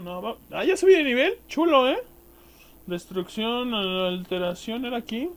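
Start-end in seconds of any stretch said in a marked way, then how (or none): 0.5-2.0 excited. Real, not acted. Leveling up.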